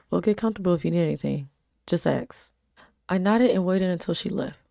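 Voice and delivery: even storytelling read; story narration. A narrator's reading. Reading her story aloud.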